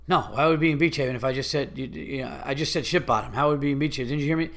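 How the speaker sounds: fast, impatient condescending reply; rude fast retort. Retold or imitated. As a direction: rattle it off like he can't be bothered. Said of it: "I'll do it again".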